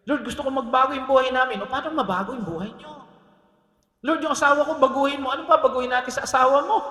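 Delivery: emphatic acted-out petition; full-force preaching. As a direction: preach it high and loud, questioning the congregation. Acts prayers and challenges at full force.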